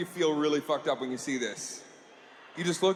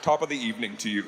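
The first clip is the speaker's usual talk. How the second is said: put-on gentle old charity host; 6 semitones lower than usual. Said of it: "the old guy comes in".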